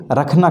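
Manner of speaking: رکھنا said with an aspirated k. Shown as a demonstration. Teacher showing students the Urdu کھ. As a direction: say رکھنا with a breathy k, not kh. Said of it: "خا اور کھا میں فرق ہونا چاہیے".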